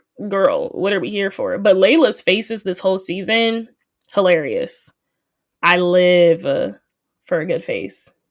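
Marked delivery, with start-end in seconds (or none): none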